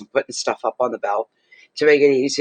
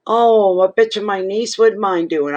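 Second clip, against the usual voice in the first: eager offer; 9 semitones higher, 4 dB louder than usual. Retold or imitated. Cashier's eager offer retold.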